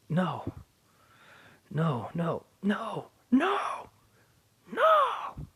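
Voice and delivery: from a firm no climbing to a high, loud scream; building into a furious no. Acted. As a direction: denial building to an angry shriek. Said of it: "As he gets angrier".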